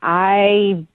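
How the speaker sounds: slow, drawn-out, wary; reluctant admission. Real, not acted. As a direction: admit it grudgingly, stretching the words. Wary date reluctantly admits knowing him.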